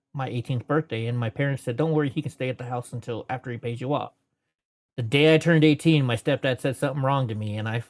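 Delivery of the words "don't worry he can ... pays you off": normal talking voice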